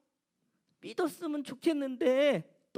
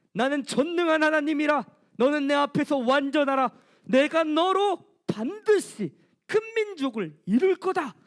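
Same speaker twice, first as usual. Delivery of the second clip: God's almighty voice; 4 dB louder than usual. Acted. God declaring the covenant to Abraham, louder and solemn. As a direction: proclaim it like the almighty. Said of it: "전능하신 하나님".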